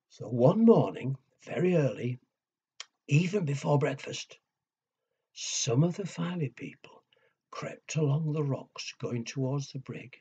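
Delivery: put-on lively storyteller voice for kids; reading to children. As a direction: build suspense like bedtime story.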